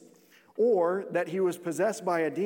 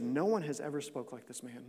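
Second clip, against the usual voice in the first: awed answer; 4 semitones lower, 6 dB quieter than usual. Retold or imitated. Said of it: "The officers answered".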